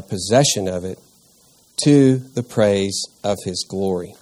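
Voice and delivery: measured, formal reading of the passage; scripture reading. Acted. Teacher reading Ephesians to the group, formal and measured. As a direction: read the verses out to the study group.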